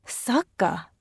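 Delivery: disbelieving single word, rising shock; can't believe what she heard; incredulous. A narrator's reading. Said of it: "Tabinda's voice was full of incredulity".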